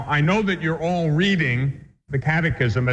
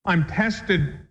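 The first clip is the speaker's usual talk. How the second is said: higher, imitating a distressed woman's complaint; a hint of an aggrieved parishioner; mock upset complaint; 5 semitones higher than usual. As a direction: play her fretting about her trials, pitched up. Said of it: "she was upset with me".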